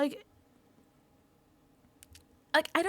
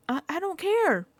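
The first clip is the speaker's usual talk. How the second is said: mock dismissive; 8 semitones higher, 4 dB louder than usual. Acting out own dismissive retort.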